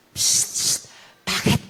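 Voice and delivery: unvoiced conspiratorial whisper. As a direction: whisper it like a secret question. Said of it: "binulong pa".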